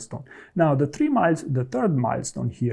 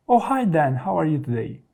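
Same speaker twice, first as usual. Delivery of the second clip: too informal; 3 semitones higher than usual. Shown as a demonstration. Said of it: "It's too informal".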